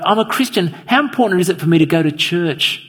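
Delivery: a hint of a puzzled churchgoer asking; lightly mocking the half-hearted Christian's question. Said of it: "throwing up these questions that are almost meaningless".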